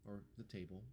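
soft, understated character voice; Sheena. Acted. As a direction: say it quietly, lightly in character. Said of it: "Sheena will be like".

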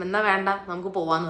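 a touch of offended anger, retold; mock sulky snap. Wife telling husband to forget it and go home, mildly huffy. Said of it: "സുധിക്ക് എനിക്ക് കലിപ്പായി എന്ന് കണ്ടപ്പോൾ".

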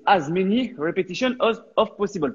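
English said with a heavy French accent; French coach attempting English with a French accent. Real, not acted. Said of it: "Mon accent anglais est très moyen".

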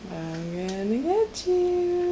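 slow, soft teasing menace; playful slow threat. Pretend. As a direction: drag it out like a tickle monster. Playful chase with toddler.

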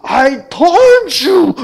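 high, loud, drawn-out blaming shout; angry blame. Pretend. Father imagining blaming his daughter, loud high shout. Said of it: "뭐라 그랬게?".

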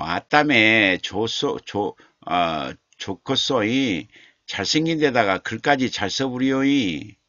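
slow drawled Jeolla dialect reading of a chat comment; 느릿한 전라도 사투리. Retold or imitated. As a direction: savour the Jeolla words like a southern local. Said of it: "사투리가 재밌네요".

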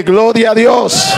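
a moderate shout of "Gloria a Dios"; shouted praise. Shown as a demonstration. Preacher showing the crowd how to shout praise, a moderate shout. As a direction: call it out as the example shout. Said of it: "Alguien que grite".

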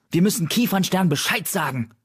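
high, urgent call to warn the leader; urgent alarm. A narrator's reading. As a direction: push it out fast and high. Alarmed warrior urges telling leader. (aufgeregt und drängend, deutlich höher)

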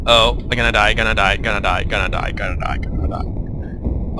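panicked, fading to a whisper; swallowed fear. Real, not acted. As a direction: gasp it out as air runs out. Character drowning in game.

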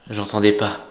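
low hushed whisper. Acted. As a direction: whisper so Piggy can't hear. Hiding from Piggy, hushed.

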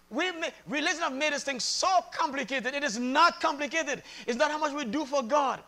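impassioned sermon, gaining force; emphatic preaching. Real, not acted. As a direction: preach it in driving, building phrases.

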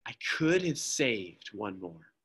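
slow, soft, grieving; quiet weeping regret; tearful lament. Acted. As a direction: choke it out through tears. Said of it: "through tears in his eyes".

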